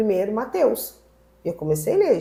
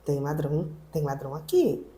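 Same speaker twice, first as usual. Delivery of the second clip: retold anxious thought; 4 semitones lower, 5 dB quieter than usual. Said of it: "E eu pensei".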